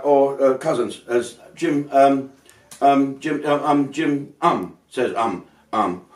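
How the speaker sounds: stammering headline full of ums; a hint of a stumbling newsreader fumbling every word; mock halting reader. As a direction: imitate a bloke who can't read aloud. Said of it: "this is how this bloke reads it".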